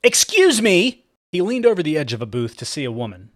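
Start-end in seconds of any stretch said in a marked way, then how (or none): 0.0-1.0 high, slow, shouted call; loud sharp voice. Acted. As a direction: call out shrill and drawn out. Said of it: "a shrill voice".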